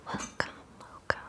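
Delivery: whispered echo for tingles; repeated ASMR whisper. Shown as a demonstration. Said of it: "I welcome some flutters and tingles".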